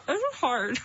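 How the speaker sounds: muffled through stuffed cheeks; mouth full. Real, not acted. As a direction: say it round a big mouthful. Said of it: "Her cheeks kinda look like mine now".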